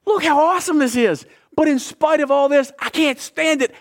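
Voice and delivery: crow, then sour on it; gloating Haman. Acted. Haman boasting to his wife, high gloating voice. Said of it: "he's like".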